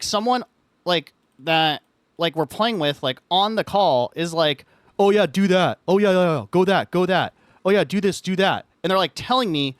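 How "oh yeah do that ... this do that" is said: louder, pushy eager urging; eager friend's voice. Retold or imitated. Friend on the call eagerly urging picks. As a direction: hurry the new player along, keen.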